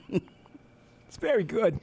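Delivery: very slow deliberate line; mock Walken slowly praising the chair. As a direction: stretch every word out. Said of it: "and was like".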